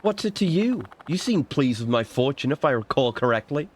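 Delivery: lightly voiced woman brushing off a complaint; defensive fortune-teller. Fortune-teller to a complaining customer, defensive role voice.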